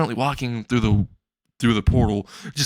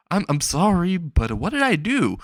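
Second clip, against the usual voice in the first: startled apology; 7 semitones higher than usual. Acted. Izuku startled by the threat.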